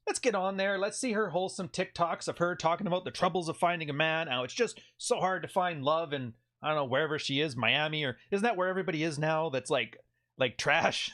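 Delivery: half-hearted impression of the woman; lightly mimicking her complaint; mock voicing her. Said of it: "let her use her own words".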